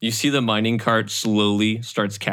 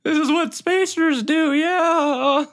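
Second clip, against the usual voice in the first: very high, uncertain character voice; conflicted rookie spacer; 4 dB louder than usual. Acted. Drona accepting that they're spacers now, high conflicted voice. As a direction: convince yourself in a high-pitched, strained voice.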